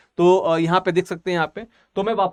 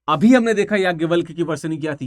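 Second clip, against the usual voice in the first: ordinary delivery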